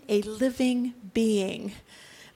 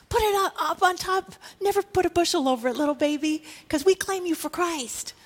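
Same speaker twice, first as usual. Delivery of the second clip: put-on tender address to a baby; 4 semitones higher than usual. Preacher speaks to the baptised baby.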